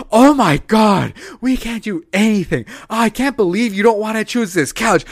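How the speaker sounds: mocking whiny girlfriend. Girlfriend storming off over a couch, mocked in a high voice. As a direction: ham up her overdramatic complaint. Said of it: "she goes".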